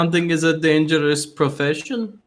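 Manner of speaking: put-on German accent, badly done; mock German-accented movie line. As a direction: do a hammy, unconvincing German accent. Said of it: "That was the worst German accent".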